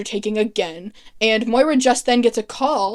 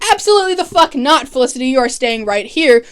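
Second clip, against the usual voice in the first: emphatic refusal. Retold or imitated. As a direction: put your foot down as Oliver. Oliver flatly refuses Felicity, retold.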